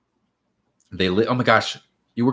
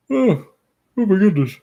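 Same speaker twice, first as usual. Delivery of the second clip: much higher gasp, caught off guard; sudden surprise; 10 semitones higher than usual. Real, not acted. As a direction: jolt up in pitch, startled. Sudden reaction on stream.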